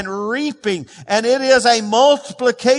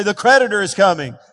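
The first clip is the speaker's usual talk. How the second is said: normal pitch, a bit louder; 3 dB louder, faster than usual. Shown as a demonstration. Preacher showing the congregation how to say it out loud. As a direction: say it out loud like you mean it. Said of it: "say it out loud".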